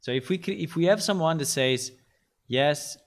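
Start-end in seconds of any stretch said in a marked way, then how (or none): 2.5-3.0 dull, droning, each phrase rising the same; boring monotone. Shown as a demonstration. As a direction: drone it out as flat as possible. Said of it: "the most annoying and boring speech ever".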